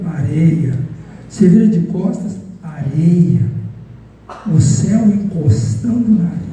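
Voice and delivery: lento e pausado, guiando a imaginação; visualização guiada. Acted. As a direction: leve o público ao deserto devagar. Conduz uma visualização guiada. (voz de visualização guiada, lenta)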